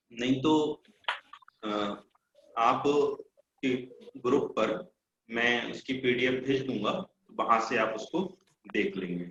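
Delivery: choppy voice cutting out; broken-up online audio; glitchy robotic call. Real, not acted. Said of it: "आपकी आवाज cut रही है।". (कटती हुई आवाज़)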